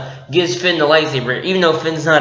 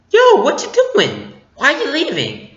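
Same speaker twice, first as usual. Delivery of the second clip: Rey's urgent question; 10 semitones higher than usual. Retold or imitated. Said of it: "Rey's just like".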